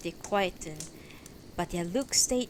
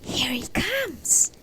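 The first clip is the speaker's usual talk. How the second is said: high, loud crowd cry; slow, raised-voice alarm cry; 8 semitones higher, 6 dB louder, slower than usual. Acted. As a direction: call it out across a crowd, drawn out. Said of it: "cried one".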